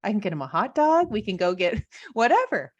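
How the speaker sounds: carefree joy with a laugh; giddy excitement. Retold or imitated. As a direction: bubble over about the hot dog. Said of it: "I remember sitting there going".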